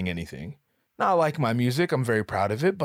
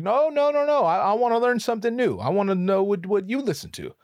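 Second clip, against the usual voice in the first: higher, louder, eager push; eager insisting; 8 semitones higher, 4 dB louder than usual. Retold or imitated. Host pressing the narrator about his music, eager. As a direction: press him keenly for an answer.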